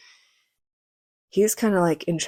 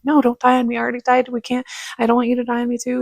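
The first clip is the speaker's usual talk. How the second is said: higher, urgent acted plea; retold freaking out; 5 semitones higher, 4 dB louder, faster than usual. Niece begs injured uncle not to die, acted-out panic. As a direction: blurt it out, imitating panic. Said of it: "freaked out".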